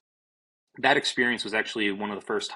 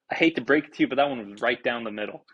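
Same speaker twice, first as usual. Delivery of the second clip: sarcastic; faster than usual. Retold or imitated. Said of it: "I said it right like that".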